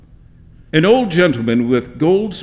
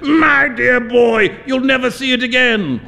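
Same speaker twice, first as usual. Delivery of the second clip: laughing; 8 semitones higher, 3 dB louder than usual. A narrator's reading. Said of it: "burst into a roar of laughter".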